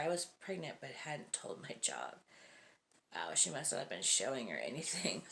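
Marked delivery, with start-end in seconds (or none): none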